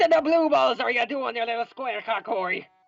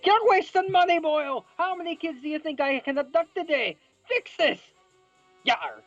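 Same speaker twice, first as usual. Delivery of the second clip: scolding pirate crab; 13 semitones higher than usual. Acted. Crab boss scolding the cook, furious pirate yell. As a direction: scream at him like a furious captain. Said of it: "Mister Krabs scolded".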